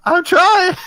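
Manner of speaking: high, loud strained protest; screaming in mind. Acted. Aiden told to scream in his mind, screaming. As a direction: scream it back, high-pitched. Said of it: "You can scream in your mind".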